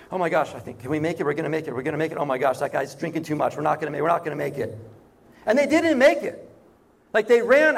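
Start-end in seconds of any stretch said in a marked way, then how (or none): 0.1-4.8 low, hurried worried muttering, lightly acted; rising concern. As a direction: imitate guests fretting under their breath, running phrases together. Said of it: "there would have been rising concern".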